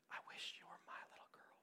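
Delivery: tender unvoiced whisper. Teacher whispering to a deaf student, tender whisper. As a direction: breathe it softly, like a secret. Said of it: "Miss Leonard said in her whisper".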